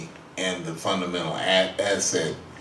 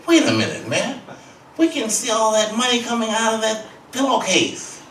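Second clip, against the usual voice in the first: higher, louder indignant protest; Miles protesting; 13 semitones higher, 6 dB louder than usual. Retold or imitated. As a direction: call him out, voice up. Miles protesting about the money.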